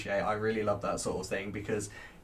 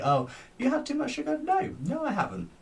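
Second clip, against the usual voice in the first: mocking high voice; 14 semitones higher than usual. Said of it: "It's like".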